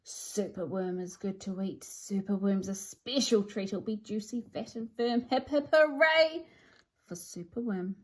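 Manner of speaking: lightly voiced menacing crow; greedy crow croaking about its meal; dreadful croak. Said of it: "listen to his dreadful croak".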